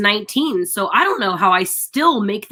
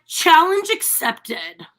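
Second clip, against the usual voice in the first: slow, drawn-out, higher pitch; mock challenge accepted; 4 semitones higher, much slower than usual. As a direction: imitate a guy relishing the challenge. Imitates how men react to rejection.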